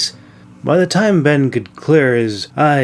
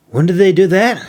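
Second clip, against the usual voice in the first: demanding; 6 semitones higher, faster than usual. A narrator's reading. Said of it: "he demanded".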